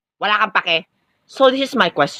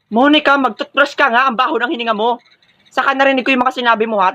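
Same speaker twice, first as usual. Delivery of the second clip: a sharp teacher catching a student; high scolding ma'am voice; 5 semitones higher than usual. Acted.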